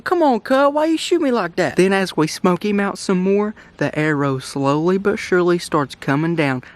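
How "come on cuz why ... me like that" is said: squirrel voice. Pretend. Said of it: "He starts talking to us, saying".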